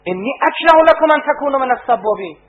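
mild retold shout. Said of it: "فریاد زد".

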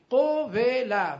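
قوله slowly as qo-ve-la; syllable-by-syllable demo. Shown as a demonstration. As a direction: separate every short vowel of قوله, qo, ve, la. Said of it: "ببین".

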